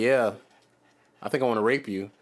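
mild mock monotone, a bit low. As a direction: imitate a deadpan cartoon character, lightly. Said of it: "a real monotone voice".

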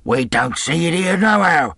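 high, loud call down; rough sailor calling out; shouted reply. A narrator's reading. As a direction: holler back from the window. Man shouts back from window.

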